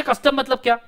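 high; student asking. Retold or imitated. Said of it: "custom को थोड़ा सा आप बताइए".

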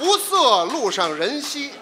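slow, loud halting verse line; slow recital. Acted. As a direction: drag the verse line slowly.

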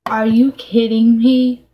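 loud, real exasperation; indignant. Real, not acted. Vlogger to the camera over her beauty box, indignant. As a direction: protest in loud disbelief. Outraged reaction to unboxed product.

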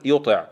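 يطع keeping ط emphatic before the i; careful teacher's reading of يطع; strong taa with kasra. Shown as a demonstration. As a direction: model يطع, firm ط not thinned to t. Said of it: "فلا يصل إلى التاء".

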